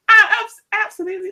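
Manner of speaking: failed Australian accent, high-pitched; attempted Australian accent. Shown as a demonstration. Host testing an accent for Ellie, botched Australian. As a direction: try an Australian accent that slips into American. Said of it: "no, that's American".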